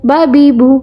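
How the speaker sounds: "बा बी बू" run together briskly; three short syllables "बा बी बू", none stretched; quick reading. Shown as a demonstration. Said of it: "जल्दी से".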